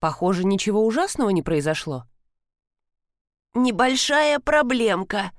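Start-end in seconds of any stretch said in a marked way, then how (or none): 3.5-5.3 slow, squeezed-out words; strained voice. Acted. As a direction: force it out through a tight throat. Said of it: "сдавленным голосом произнесла".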